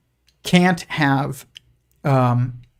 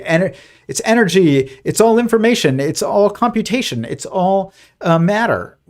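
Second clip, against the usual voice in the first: raised, louder mock-eager recital of buzzwords; mocking what people say; 6 semitones higher, 3 dB louder than usual. Mocking people who call everything energy, raised eager voice. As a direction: parrot the slogans in a higher, louder, sing-song voice. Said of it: "people say".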